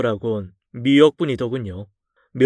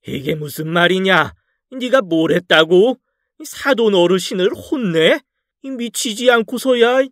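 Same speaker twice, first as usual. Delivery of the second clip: furious father; 6 semitones higher than usual. Acted. Furious father-in-law scolds daughter.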